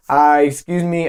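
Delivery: slow, careful delivery for a foreign listener; measured, deliberate request. Shown as a demonstration. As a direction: say it slowly so they understand. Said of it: "kinda slow down and almost say it how they would say it".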